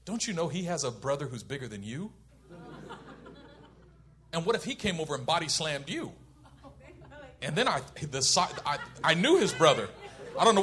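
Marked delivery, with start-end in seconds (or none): 0.1-6.1 low, soft retold motherly reasoning; mom's calm warning. Mom warning her son about the bigger brother, low and soft. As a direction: imitate a mother quietly making a point. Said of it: "She goes".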